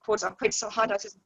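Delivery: choppy, time-smeared call audio; words dropping out over bad internet; lagging connection. Real, not acted. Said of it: "you're lagging and we're missing quite a bit".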